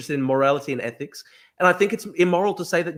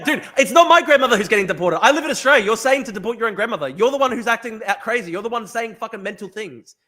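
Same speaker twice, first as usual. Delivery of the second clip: raised, louder and higher; real exasperated outburst; heated anger; 4 semitones higher, 5 dB louder than usual. Real, not acted. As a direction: push back hard, voice climbing. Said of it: "let that rage fuel you".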